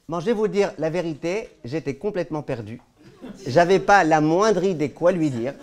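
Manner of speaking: chuckling through the words; laughing. Real, not acted. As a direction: laugh at himself while admitting it. Laughs at his own confusion.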